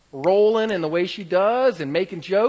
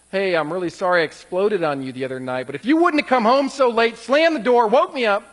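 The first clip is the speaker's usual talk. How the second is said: blaming apology; 6 dB louder than usual. Retold or imitated. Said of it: "it's not like".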